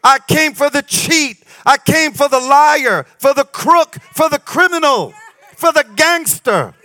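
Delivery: full-force sermon, rising and ringing; preaching. Acted. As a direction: preach it out to the crowd.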